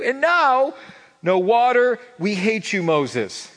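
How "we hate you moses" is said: louder, higher, demanding whine; mock angry grumbling. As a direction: turn on the leader in a hammed-up huff. Israelites turn on Moses.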